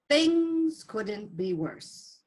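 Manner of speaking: a man at the end of his rope, very slow; weary despair. Acted. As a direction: drag it out slowly, defeated.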